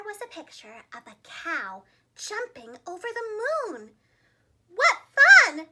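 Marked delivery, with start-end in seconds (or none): 4.7-5.7 high, loud delight; joyful cry. A narrator's reading. Cow Missus Mooley crying out in high delight. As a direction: squeal it with glee. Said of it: "cried Missus Mooley".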